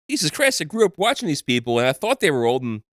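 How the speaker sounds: high, delighted exclaim; gleeful exclamation. Retold or imitated. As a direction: burst out happily. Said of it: "I think".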